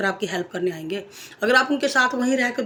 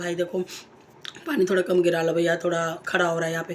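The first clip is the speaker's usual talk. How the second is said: polite gentle request; 4 semitones lower than usual. Retold or imitated. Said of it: "हम आराम से प्यार से बोलते हैं".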